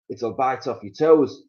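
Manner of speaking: a hint of a sly husband; mild Mister Twit. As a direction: tease her lightly. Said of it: "said Mister Twit".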